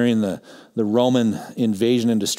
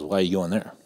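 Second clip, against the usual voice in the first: a touch of dismay, dropped softer; disapproving question; 3 semitones lower, 5 dB quieter than usual. Retold or imitated. Pastor hears the seminary name, imitated with dismayed disapproval. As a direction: let the question sink with disapproval. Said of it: "that's how he sounded".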